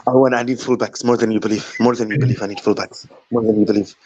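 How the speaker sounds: lightly voiced football manager impression; Pep Guardiola. Guest shows off his Pep impression, lightly accented manager voice. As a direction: mimic a Spanish-accented manager, repeating yourself. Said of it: "his Pep impressions are spot on".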